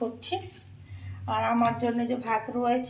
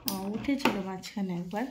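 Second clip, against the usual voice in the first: soft, lowered voice; hushed; 5 semitones lower, 6 dB quieter than usual. Real, not acted. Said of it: "একটু আস্তে আস্তে কথা বলতে হবে". (আস্তে, নিচু গলায়)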